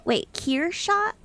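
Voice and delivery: Kershaw rising high, surprised, Wait drawn out; surprised check. Real, not acted. Streamer surprised by a viewer's pronunciation correction. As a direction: say Kershaw as KEER-shah with a startled rising question. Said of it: "Is that how you say it?".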